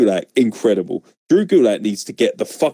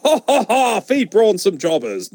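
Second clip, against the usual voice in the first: mock Braun Strowman; 10 semitones higher than usual. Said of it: "Braun didn't come out and go".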